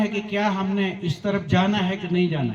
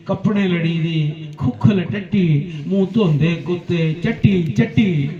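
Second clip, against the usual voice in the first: poem recitation. Acted. Poet describes a staggering drunkard, rhythmic recitation. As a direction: beat out each rhyme, stepping down through the stanza.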